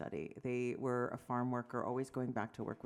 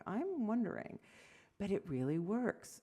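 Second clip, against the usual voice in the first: much higher, teasing imitation of a friend; mocking a friend; 6 semitones higher than usual. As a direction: poke fun at a friend's earnest phrase. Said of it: "I used to mock my friend".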